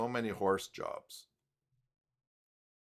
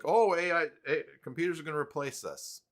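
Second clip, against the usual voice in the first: mock doom and gloom; 7 semitones higher, 3 dB louder than usual. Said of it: "it's like".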